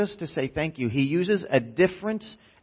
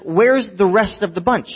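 lightly voiced movie tough guy, pitched up; De Niro; 6 semitones higher, 3 dB louder than usual. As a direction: ask it with a hint of a tough-guy impression. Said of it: "you'll hear whose voice in just a minute".

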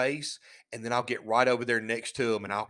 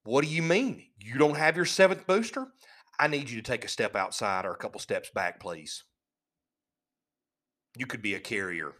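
playing dumb; 4 semitones lower than usual. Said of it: "look at 'em real stupid and go".

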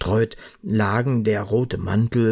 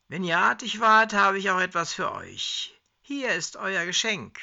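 higher, kindly Father Christmas voice; a higher put-on Santa offering a gift; jolly Santa; 12 semitones higher than usual. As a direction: play the generous Santa handing out sweets. Herbie plays Santa to pensioners.

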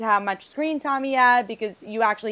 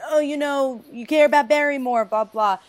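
mock resentful teen; 5 semitones higher, 6 dB louder than usual. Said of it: "I was afraid it was just gonna be like".

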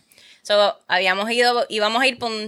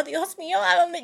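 mock panic; 5 semitones higher than usual. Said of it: "Y yo".

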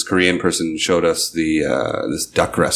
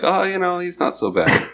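grudging parents; 12 semitones higher than usual. Retold or imitated. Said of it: "they're like".

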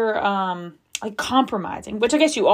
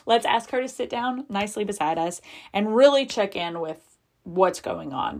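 settled down, calm; 2 semitones higher than usual. Retold or imitated. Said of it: "then I settled down".

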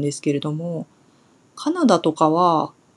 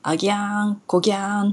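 Kumamoto dialect; faster than usual. Shown as a demonstration. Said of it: "まあ、よく言うのは".

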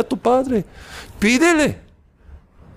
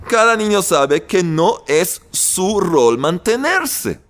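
slow emphatic teaching. Shown as a demonstration. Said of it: "Recuerden esto muy bien".

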